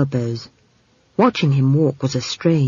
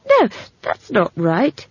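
higher, halting protest; urgent; 5 semitones higher, slower than usual. Acted. Simon contradicting Esk about books, urgent. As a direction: correct her earnestly, drawing out the words. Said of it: "said Simon urgently".

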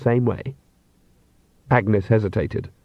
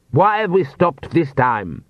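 slow, haughty voice from the coach; an impatient noble demanding answers; aristocratic vampire; 4 semitones higher, slower than usual. A narrator's reading. Vampire master behind hatch.

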